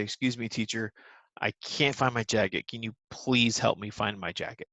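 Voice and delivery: a polite, steady request to the teacher; calm and assertive. Shown as a demonstration. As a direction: ask respectfully and stay calm. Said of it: "So that is an assertive way".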